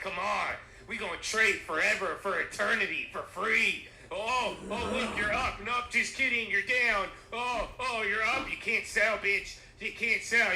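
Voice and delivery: high, loud manic taunting; hammed-up devilish trading tormentor; Vlad. Devil taunting a trader for eternity, manic mock glee. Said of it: "now Vlad's gonna be like".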